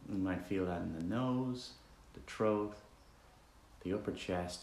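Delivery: relaxed, conversational meditation leading with roomy silences; guided meditation. Acted. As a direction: guide listeners gently with long pauses between instructions.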